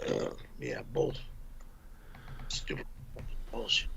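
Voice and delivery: fast whispered grumble under breath. Real, not acted. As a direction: hiss it to yourself, fast. Grumbling after argument.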